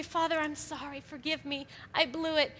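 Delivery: hushed contrite prayer. Retold or imitated. A repentant woman praying to Father, hushed. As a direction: murmur it like a real apology to God.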